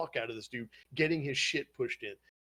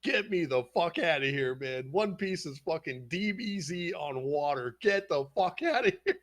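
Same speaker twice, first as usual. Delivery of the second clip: mock outrage with raised pitch; retold indignation; 4 semitones higher than usual. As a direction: replay your defensive rant, half joking. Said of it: "I was mad as shit".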